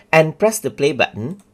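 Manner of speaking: ordinary talk, nothing marked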